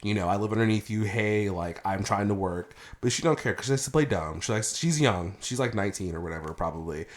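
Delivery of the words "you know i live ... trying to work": soft, low-key polite request to a neighbor; nicely asking. Retold or imitated. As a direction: re-enact asking gently, not rude. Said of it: "I've asked her very nicely, not rude".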